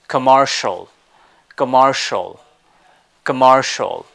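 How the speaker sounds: "commercial" with an extra R in the middle; American pronunciation. Shown as a demonstration. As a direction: say "commercial" with an R-colored vowel. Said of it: "an extra R with this commercial".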